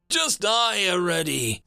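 high, angry yell mid-fight; exasperated battle cry. A narrator's reading. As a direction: cry it out while firing at the enemy. Fighter yells while firing.

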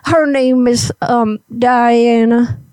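lightly voiced old granny; a hint of a little old lady. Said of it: "I gotta get my old granny voice up here".

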